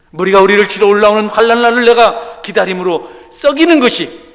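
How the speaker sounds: loud, high fervent preaching; preaching at full force. Acted. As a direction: thunder it from the pulpit.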